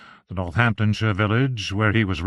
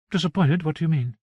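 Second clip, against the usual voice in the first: higher, puzzled echo of Disappointed; puzzled wife; 6 semitones higher than usual. Acted. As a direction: throw the word back, pitched up. Arabella questions her husband.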